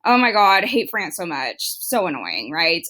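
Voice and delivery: acted grumble that sinks in pitch; mock annoyance. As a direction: complain as a fed-up king, lightly hammed up. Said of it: "he's not happy about this".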